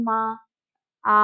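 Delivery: মা with the আ pulled long, like calling mother; drawn-out call. Shown as a demonstration. Teacher showing how a child calls মা with a long আ. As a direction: call মা and stretch out the আ. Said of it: "আ গুলো সব টানা হচ্ছে".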